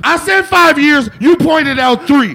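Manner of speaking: loud, insistent correction; real yelling. Real, not acted. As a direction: shout each point at your opponent. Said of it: "Hey, y'all keep yelling".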